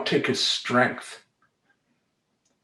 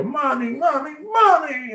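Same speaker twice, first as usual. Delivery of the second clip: put-on high whiny child voice; child calling mommy; 3 dB louder than usual. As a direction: call out like a needy little kid. Son calling for mom.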